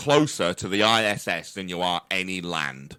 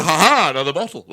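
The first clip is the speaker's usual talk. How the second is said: put-on drunken delight; 6 semitones higher, 4 dB louder than usual. Drunk man finding a bottle.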